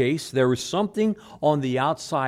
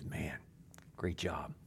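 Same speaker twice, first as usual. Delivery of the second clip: boss praise; 8 semitones lower, 16 dB quieter, slower than usual. Retold or imitated. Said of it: "He goes".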